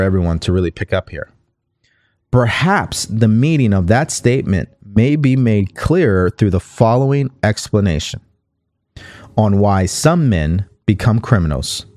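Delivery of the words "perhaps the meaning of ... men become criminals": measured, deliberate read from a book; book reading aloud. Acted. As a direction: read the passage out clearly for listeners.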